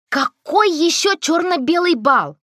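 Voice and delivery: high, loud, slow disbelief; stunned, demanding question; shocked. A narrator's reading. Girl demands to know about the ball, high and loud.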